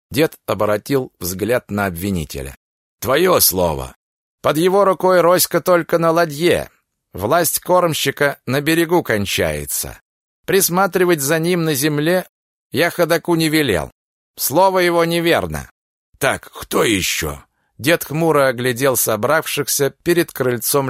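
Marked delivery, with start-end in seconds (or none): 3.0-15.7 raised, accusing testimony; indignant accusation. Acted. 16.2-17.4 slow, low stern elder; gruff old judge. Acted.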